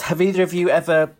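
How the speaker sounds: hiccuping mid-read; with hiccups. Real, not acted. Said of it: "sorry, I'm hiccuping".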